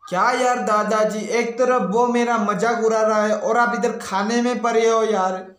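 a touch of exasperated complaint; mildly angry. Acted. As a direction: grumble at grandpa in mock annoyance. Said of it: "इतना गुस्सा क्यों हो रहे हो". (हल्की झुंझलाहट भरा गुस्सा)

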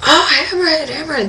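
high-pitched thrilled exclamation; excited outburst. Retold or imitated. Divers spotting their first hammerhead, excited. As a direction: act out a rush of excitement, voice leaping up. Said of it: "the excitement that comes up".

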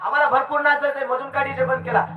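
high-pitched ghostly outcry, loudest on the name; ghosts yelling. Retold or imitated. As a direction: call out like aggrieved ghosts. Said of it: "भूतं ओरडू लागली".

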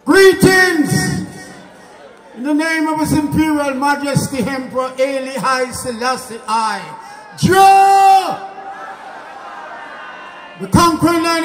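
booming Rasta proclamation to the crowd; grand entrance announcement. Real, not acted. Rasta percussionist opens his stage set.

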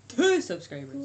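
excited repeat. Real, not acted. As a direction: shout the news with joy.

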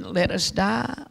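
slow, drawn-out mild plea; retold plea of the damned. Souls in the valley beg for death, slow mild plea. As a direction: say it slowly, like a lost soul begging. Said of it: "and screaming".

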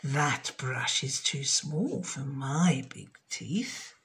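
a hint of a sly crocodile. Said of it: "but the crocodile said".

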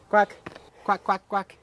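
imitating a duck quack. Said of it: "What noise do ducks make?".

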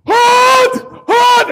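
high, loud grunted shouts; straining shout. Acted. Lifter counting reps under the bar, loud straining shouts. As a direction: push out each rep with a yell.

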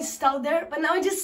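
toothbrush in mouth; speaking around toothbrush; talking while brushing teeth. Real, not acted. Seen 1: Electric toothbrush in mouth from 1.6 to 2.6s, not throughout.

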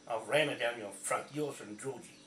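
loud, furious threat; angry threat. Real, not acted. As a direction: spit it at him, really angry. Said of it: "I'll say it like that on this video".

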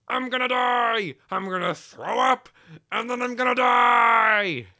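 high, drawn-out doomed wail; comic panic. Acted. Engine facing a crash, hammed-up panic.

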